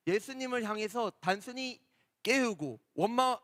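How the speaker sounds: ordinary talk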